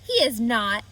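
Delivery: Avery, loud and stubborn; Avery protesting. Acted. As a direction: insist hard, contradicting sister. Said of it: "said Avery".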